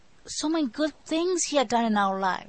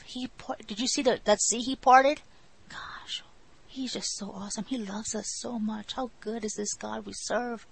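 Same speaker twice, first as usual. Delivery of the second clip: hushed awe. Retold or imitated. Voicing grateful Israelites, hushed.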